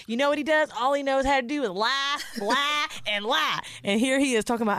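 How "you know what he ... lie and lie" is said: mock angry rant. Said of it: "And she's like".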